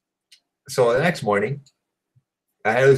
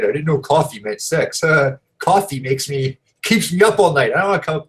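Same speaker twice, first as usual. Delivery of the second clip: George Costanza; 4 semitones higher than usual. Retold or imitated. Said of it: "like George Costanza".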